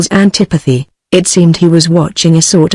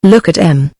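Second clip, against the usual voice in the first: intense tone. Acted. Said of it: "in a curious, intense tone".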